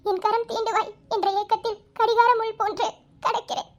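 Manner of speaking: pleading, emotional poem reading; tearful recital. Acted. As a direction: recite it with hurt, close to tears. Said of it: "ஏன் அழுகுற?".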